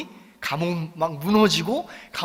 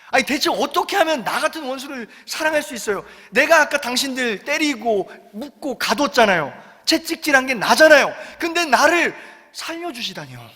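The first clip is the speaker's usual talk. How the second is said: higher, amazed pleading questions; astonished jailer; 4 semitones higher than usual. Retold or imitated. Jailer asking Paul and Silas why they saved him, astonished plea. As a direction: marvel at mercy you don't understand.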